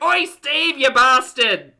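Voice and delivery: high, loud yell from the back; acted irate hollering; angry shout. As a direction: bellow abuse at a neighbour. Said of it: "shouting from the back".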